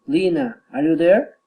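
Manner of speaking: addressing Lena, pitch rising on "there"; rising direct address. Shown as a demonstration. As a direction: call "Lena", then climb on "there". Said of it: "rising intonation".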